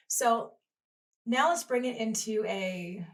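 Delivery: usual speaking voice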